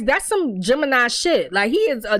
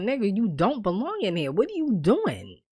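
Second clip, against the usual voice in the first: earnest, emphatic pleading, softer voice; serious disbelief; 2 semitones lower, 5 dB quieter than usual. Retold or imitated. Visitor seeing friend in jail now, earnestly baffled. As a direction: imitate someone seriously questioning a friend. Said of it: "the same line two different ways".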